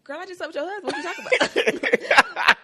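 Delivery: high, laughing taunt; hammed-up shameless sneer, laughing; mock brazen mistress. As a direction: cackle it at the wife like the other woman. Voicing brazen mistress mockingly.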